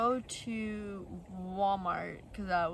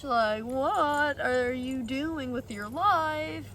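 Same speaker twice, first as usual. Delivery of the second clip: incredulous scolding; 4 semitones higher, 4 dB louder, much slower than usual. Retold or imitated. Mocking his spending.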